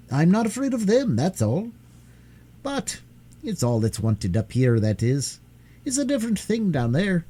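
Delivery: lightly voiced young miner boy, friendly. Curdie explains the goblins.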